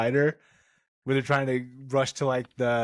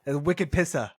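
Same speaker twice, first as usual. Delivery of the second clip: light Boston accent, a little livelier; 2 semitones higher than usual. Shown as a demonstration. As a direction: lean into the Boston "Pissa". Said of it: "gotta hit it with the Boston accent".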